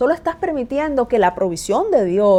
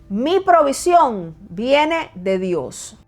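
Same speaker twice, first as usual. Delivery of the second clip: con convicción; much slower than usual. Shown as a demonstration. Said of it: "di esto en voz alta, con convicción".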